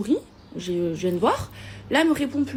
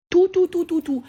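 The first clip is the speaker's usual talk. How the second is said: emphatic outburst; 6 semitones higher, 3 dB louder than usual. Real, not acted. Demanding all the money back.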